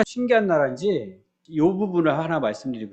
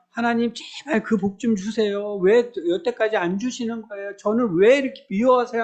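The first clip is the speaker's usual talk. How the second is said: higher-pitched mock pleading to God; clinging prayer; 5 semitones higher than usual. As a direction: beg like a child praying, mildly hammed-up. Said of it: "막 매달리고 기도하고". (매달려 조르는 기도 흉내)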